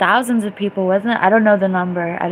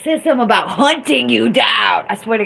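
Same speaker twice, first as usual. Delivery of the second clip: excited insistence; 2 semitones higher, 4 dB louder, faster than usual. Real, not acted.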